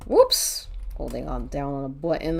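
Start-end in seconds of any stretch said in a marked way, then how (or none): 0.1-0.7 surprised squeak. Real, not acted. Caught pressing the wrong button.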